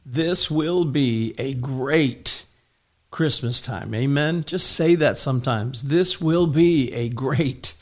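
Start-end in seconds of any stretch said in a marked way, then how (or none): 0.1-3.9 slow, deliberate proclamation; prophetic decree. Real, not acted. Pastor decreeing a great Christmas over his congregation, slow prophetic decree. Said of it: "That is a prophetic decree". 5.8-7.7 slow, deliberate proclamation; prophetic decree. Real, not acted. Pastor decreeing a great Christmas over his congregation, slow prophetic decree. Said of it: "That is a prophetic decree".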